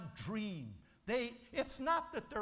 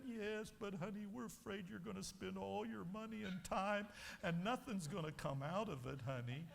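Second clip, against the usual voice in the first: softer, coaxing and concerned; soft worried plea; 7 dB quieter than usual. Acted. Worried parent pleading with their child, soft.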